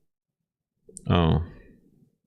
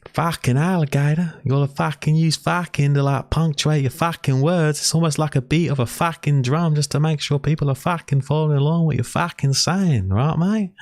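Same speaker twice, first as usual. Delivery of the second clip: much higher, hammed-up Australian accent; Aussie impression; 11 semitones higher than usual. Teasing his co-host by imitating him in a high mock Australian accent. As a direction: overdo a stereotypical Australian bloke. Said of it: "It was a bit stereotypical".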